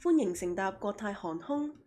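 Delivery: lightly voiced cabin welcome with a rising end; a hint of a flight announcer greeting; 欢迎乘搭国泰航空 said as a light mock airline greeting with a rise at the end; airline announcement. Shown as a demonstration. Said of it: "I can do airlines".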